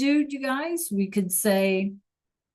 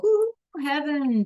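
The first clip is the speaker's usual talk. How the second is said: excited praise; 6 semitones higher than usual. Real, not acted. Praising a student's answer.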